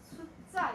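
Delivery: 숫자 with a stopped first syllable and hardened second consonant; tensed pronunciation. Shown as a demonstration. Teacher showing students the sound, 숫자 said as 숟짜. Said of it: "이렇게 발음을 해".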